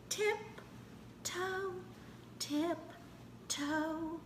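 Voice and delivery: high, hushed, creeping; sneaky tiptoe. Pretend. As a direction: creep it in a hush. Sneaking before the boo.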